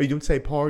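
"power" as one flat syllable, "par"; broad Belfast pronunciation. Retold or imitated. Brother correcting himself, "power" said as "par". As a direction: run "power" together into "par". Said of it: "you say power".

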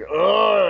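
disgusted grunt. Retold or imitated. Wrestler snubbing her at intermission, disgusted groan. Disgusted walk-away acted out.

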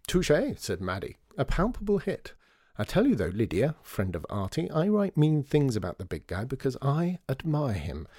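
lightly voiced sharp-tongued columnist; sharp journalist. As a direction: Maddie scoffing at children, lightly voiced. Maddie's voice again.

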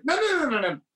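insistent. Retold or imitated. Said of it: "he won't have it".

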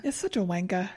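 botched British, sliding toward Australian; attempted British accent. Host trying out a British swear, wobbly British accent. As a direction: have a half-successful go at British. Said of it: "how to do a British accent".

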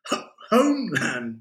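high, wheezy translation with a stumble; wheezed, faltering words; wheezing. A narrator's reading. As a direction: struggle for breath as you get it out. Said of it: "wheezed Adam".

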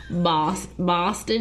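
mock Boston accent with dropped r in car; playfully faked Boston accent; Boston accent attempt. Shown as a demonstration. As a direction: try out a broad Boston accent. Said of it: "that's the worst accent ever".

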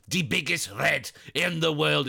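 slow, drawn-out Scouse accent imitating a pundit; Scouse impression. Pundit's catchphrase in a mock Scouse accent. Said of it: "with that Scouse accent that I impersonate".

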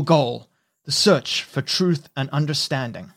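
solemn speech through a crackling radio; Nixon impression. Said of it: "I'm gonna make my best attempt at a Nixon".

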